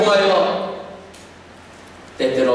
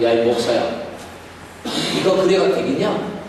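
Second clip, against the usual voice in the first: mock scolding. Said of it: "이렇게 하신다면".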